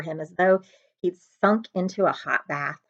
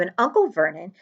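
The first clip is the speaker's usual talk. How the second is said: plain reading voice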